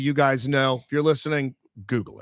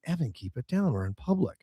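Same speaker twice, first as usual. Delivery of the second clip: hushing; 3 semitones lower, 7 dB quieter than usual. Retold or imitated. Dad hushing son in public.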